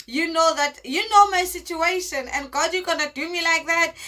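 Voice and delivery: retold indignant plea to God; questioning God. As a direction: plead with God, pressing each complaint. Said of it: "kind of questions that I had, uh, I had to ask God".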